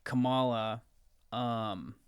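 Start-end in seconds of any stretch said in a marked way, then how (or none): 0.0-0.8 KAMALA as kuh-MAH-la; contested pronunciation. Real, not acted. Co-host unsure of the name, Kamala stressed on the middle. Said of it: "not allowed to say it like that".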